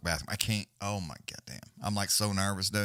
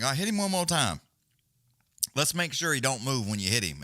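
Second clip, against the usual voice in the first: egging on; 4 semitones higher than usual. Retold or imitated. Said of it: "Herzog will be like".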